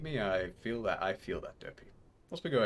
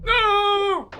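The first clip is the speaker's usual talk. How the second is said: shouted no; 12 dB louder than usual. Real, not acted. Sudden game failure.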